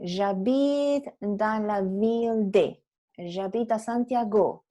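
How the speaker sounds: French phrase, slow, final stress; French example. Shown as a demonstration. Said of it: "Entonces tú dices".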